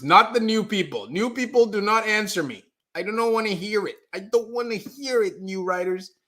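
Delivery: high, teasing plea to the newcomers; playful mock dismissal. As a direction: wave off the new people in a high, jokey voice. Teasing new viewers not to answer.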